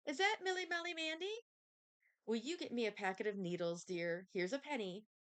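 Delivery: high lilting call from another room; lightly voiced auntie calling out, high. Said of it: "Auntie called from the parlor".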